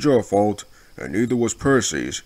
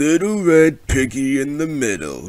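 teasing, gleeful, chortling through a chuckle; 4 semitones higher than usual. Teasing an engine backing up to his freight cars, chortling. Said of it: "chortled Airy".

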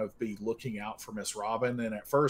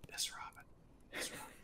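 hushed, barely voiced whisper; 15 dB quieter than usual. Voicing a character trying to wake a sleeping companion: whispering. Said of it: "he's, like, whispering".

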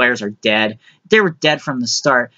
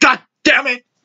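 mock, very high-pitched, furious delivery; 10 semitones higher than usual. Retelling a grandfather cursing when a screw slips: imitating grandpa cursing angrily. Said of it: "he'll be like".

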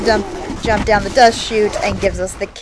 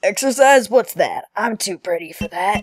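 put-on chain smoker voice. Voicing Leon in a made-up game dialogue: Leon voice like a chain smoker. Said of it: "why you sound like a chain smoker".

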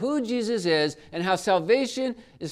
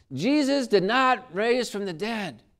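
mock yelling, slower; 4 semitones higher, 5 dB louder than usual. Recounting a man yelling at a member of your group, retell his yell. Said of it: "he was yelling out".

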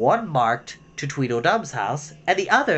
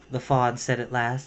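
ordinary delivery, nothing marked

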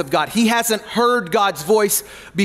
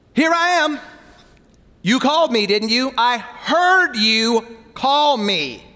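needling, sarcastic tone; 4 semitones higher than usual. Acting out the boy answering the old priest, imitating a sarcastic tone. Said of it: "I think he got sarcastic right now".

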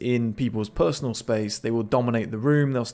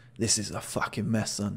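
mock grunting whisper, much lower pitch; 3 semitones lower, 7 dB quieter than usual. Breaking down a clip, repeating the line: imitating a grunting whisper. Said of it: "That tonality again there is kind of like a grunting whisper".

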